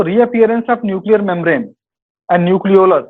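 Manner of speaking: reading the question out slowly; dictating a quiz question. Acted. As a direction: spell out each word for students. Reads quiz question aloud.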